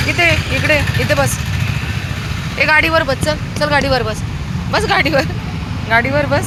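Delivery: insistent, high-pitched pet commands; urging a dog. Real, not acted. Ordering a dog onto vehicle.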